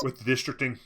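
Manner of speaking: talking through a yawn. Real, not acted. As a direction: say it mid-yawn. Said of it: "Sorry about the yawns".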